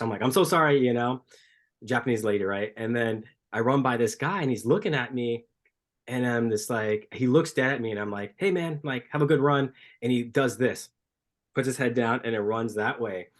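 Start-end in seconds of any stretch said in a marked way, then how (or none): 0.2-0.8 higher, louder acted sorry; retold apology. Runner apologising to a startled lady, retold high apology. 8.4-9.7 high, upbeat retold hail; acted friendly greeting. Runner greeting a guy going by, acted friendly hail.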